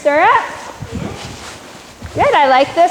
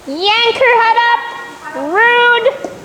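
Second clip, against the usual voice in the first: scolding; 8 semitones higher, slower than usual. Real, not acted. Coach scolds horse for yanking.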